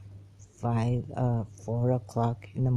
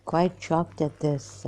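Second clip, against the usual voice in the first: talking with food in mouth; words round a mouthful; mouth full; 3 semitones higher than usual. Real, not acted. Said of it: "I have something in my mouth".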